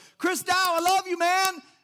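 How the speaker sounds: very loud, high-pitched holler. Recalling a man yelling after him in the parking lot, retelling a yell. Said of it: "he's yelling".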